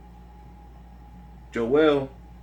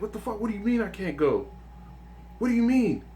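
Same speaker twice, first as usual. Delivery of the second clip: pitched-up retold outburst, a bit of mock panic; freaking out; 8 semitones higher than usual. The friend rejected at the door, pitched-up mock outrage. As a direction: play the friend losing it at the door. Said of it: "And he started freaking out".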